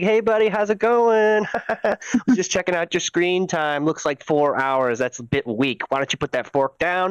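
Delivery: put-on jokey dad talking down to his kid; lightly voiced cool dad ribbing his son; mock dad. Dad teasing his son about screen time, mock stern.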